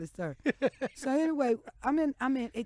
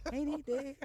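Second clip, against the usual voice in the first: retold blurt; 5 semitones higher than usual.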